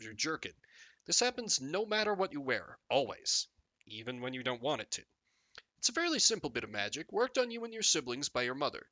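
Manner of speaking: measured storybook narrator; expressive read-aloud narration; game story narration. Acted.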